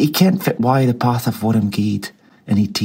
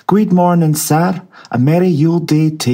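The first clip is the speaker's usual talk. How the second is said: cheery gentlemen greeting; 7 semitones higher, 4 dB louder than usual. A narrator's reading. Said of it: "three or four fine chiels said".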